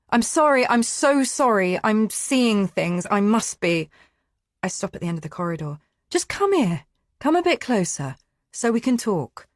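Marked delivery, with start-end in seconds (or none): 0.1-3.9 tearful apology. A narrator's reading. Frightened woman apologizes tearfully. 6.1-9.5 calmer coaxing. A narrator's reading. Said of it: "He's calmer".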